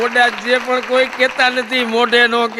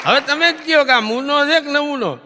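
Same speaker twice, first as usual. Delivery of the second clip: higher and louder, hammer the punchline; punchy loud catchphrase; 6 semitones higher, 3 dB louder than usual. Acted. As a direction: throw it out to the crowd. Catchphrase repeated again. (હવે તમે જ કયો એ જોરથી, ઊંચા સૂરે પૂછવું)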